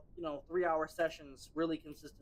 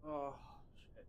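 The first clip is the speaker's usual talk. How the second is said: out of breath from lifting; panting between words after a set; after a workout; 3 semitones lower, 12 dB quieter, much faster than usual. Real, not acted. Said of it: "Give me a minute to catch my breath".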